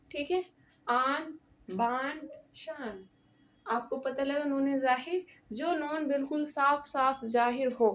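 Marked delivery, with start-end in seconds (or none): 0.9-3.0 آن، بان، شان with the final ن fully sounded; teacher demo with a clear noon in آن، بان، شان. Shown as a demonstration. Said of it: "ظاہر ہو رہا ہے میری آواز سے کہ میں نے نون بولا ہے".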